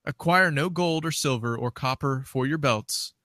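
measured phrases with lifted list items; scripture reading. Acted. Co-host reading Matthew ten to the minister, scripture reading. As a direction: read the Bible passage aloud in distinct phrases.

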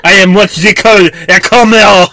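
hammed-up Frenchman declaring; French accent. Mock French explorer shouting.

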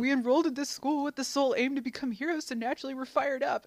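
a touch of authoritative enthusiasm; stiff enthusiasm. Retold or imitated. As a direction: rattle it off like an eager class rep. Imitating Ida's stiff enthusiasm.

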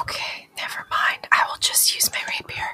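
whispered, deflated giving in; small, hushed resignation; mock disappointment. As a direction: whisper it like a sulk. Deflated after rule refusal.

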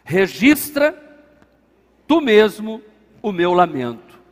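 low, measured reading with weighty pauses; solemn scripture reading. A narrator's reading. Pastor reading the psalm to the church, solemn and measured. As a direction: read the verse out gravely, phrase by phrase.

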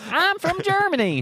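put-on high, loud, botched German accent; mock German that lands in Kentucky; bad German accent. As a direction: belt out a badly faked German accent. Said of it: "I always do the same accent".

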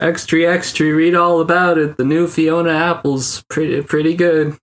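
high newsboy call; rapid old-time reporter. Retold or imitated. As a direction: hawk the headlines like a paperboy. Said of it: "a newspaper boy is waving in my face".

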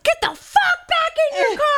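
high yelled command; yelled order. Retold or imitated. To the screaming old man, yelled order. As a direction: bark him back to his car. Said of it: "I'm like".

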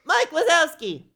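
put-on very high toddler squeal; Boo. Toddler repeats the monster's name, very high squeal. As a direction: squeak it like a delighted tiny child. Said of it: "and goes".

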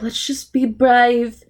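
drawn-out, hammed-up British accent; terrible British accent. Two doomed kids resolve to be brave, terrible British accent. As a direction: do a bad, slow British accent. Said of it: "terrible British accents".

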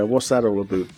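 mock Canadian, "about" as "a boot"; Canadian accent. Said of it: "a boot is mostly a Canadian thing".

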